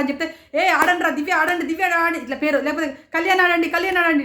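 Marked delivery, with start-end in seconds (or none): 0.5-2.2 imitating cheering. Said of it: "గట్టి గట్టిగా అరుస్తారు". 3.1-4.2 mock cheering shout. Reviewer imitating a housemate cheering Kalyan, mock cheering shout. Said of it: "అని చెప్తే encourage చేస్తారు".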